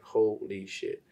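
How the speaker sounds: slow, stunned holy shit; slow amazed disbelief; awed. Retold or imitated. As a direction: let it sink in slowly. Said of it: "I was like".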